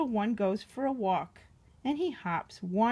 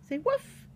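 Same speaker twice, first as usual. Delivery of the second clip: prompting woof; 13 semitones higher than usual. Shown as a demonstration. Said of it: "Can you bark one time?".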